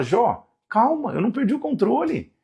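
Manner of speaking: calm Job down from above; God gently rebuking a desperate Job; God speaking to Job. Acted. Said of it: "ele fala".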